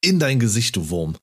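punchy, high exclamation falling on the final words; triumphant mock taunt. Fan relishing Kroos's comeback at the reporter, triumphant mock taunt. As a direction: crow it like a verbal knockout.

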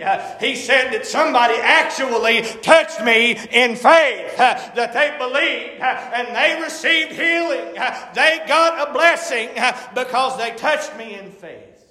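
impassioned preaching with punctuating "uh". Acted. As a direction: preach it in a driving, rhythmic cadence. Preaching in rising cadence.

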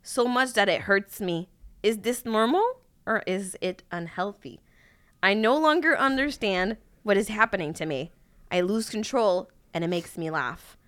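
slow, solemn reading of clumsy lyrics; slow dramatic lyric reading. Acted. Reading machine-translated lyrics to a friend, slow and solemn. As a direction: deliver each line slowly like a grand poem.

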